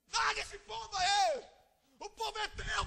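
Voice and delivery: high, loud exasperated plea; Moses complaining. Retold or imitated. Moses shouting his frustration at God about the people. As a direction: throw up your hands and shout it to God.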